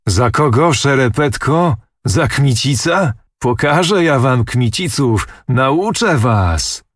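contemptuous outburst, dragged out on the last words; angry prince. A narrator's reading. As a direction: sneer and threaten the old nobleman. Prince rages at the sword-bearer.

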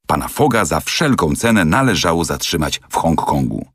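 normal talking voice

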